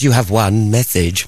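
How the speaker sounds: slow mock automated announcement; snooty answerphone woman. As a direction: imitate a haughty voicemail lady. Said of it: "That woman does sound snooty".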